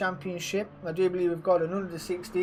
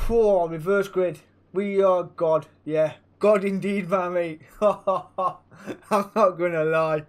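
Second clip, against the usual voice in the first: got excited; 6 dB louder than usual. Real, not acted. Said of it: "Sorry, I got excited".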